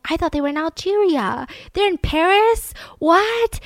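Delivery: high-pitched, incredulous questioning; astonished disbelief. Acted. Parisians hearing the hijackers are in town, astonished disbelief.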